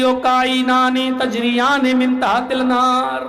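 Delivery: slow, drawn-out chanted Arabic; mock Quran recitation. Cleric reciting a verse to justify grabbing the ghee, slow chant. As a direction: intone it like a cleric reciting scripture.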